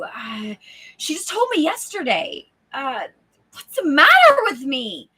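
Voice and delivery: lightly acted flustered self-talk; inner voice. Inner voice failing to remember her name, flustered. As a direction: fret while groping for a forgotten name. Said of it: "The voice inside your head".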